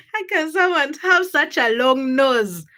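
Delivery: giggling in amazement; laughing child. Retold or imitated. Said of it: "I was like".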